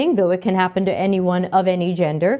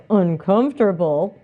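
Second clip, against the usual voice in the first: questioning, disbelieving repeat; incredulous echo; 3 semitones lower than usual. Retold or imitated. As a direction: echo it back as a puzzled question. Echoes the organisers' word incredulously.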